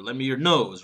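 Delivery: final word "nose" stressed as a contrast. Shown as a demonstration. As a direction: land on "nose" as another alternative. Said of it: "as opposed to what?".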